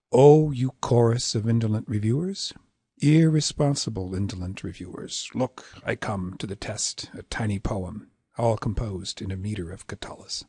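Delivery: measured poem recitation easing into spoken rhythm; verse read close to spoken language; natural verse reading. Shown as a demonstration. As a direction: recite the verse like speech, unhurried. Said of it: "get to where you're reading it like".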